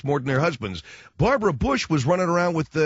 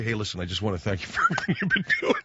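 mock employee thanks; 6 semitones lower, faster than usual. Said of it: "Go up to your boss".

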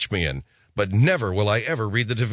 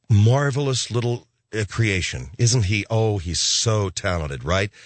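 fawning gush; 5 semitones lower, slower than usual. Retold or imitated. Mocking adults fawning over kid.

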